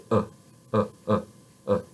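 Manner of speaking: "Uh" with a slack, unmoving mouth; lazy neutral "uh", no muscles; relaxed schwa. Shown as a demonstration. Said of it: "completely relax your mouth and just say".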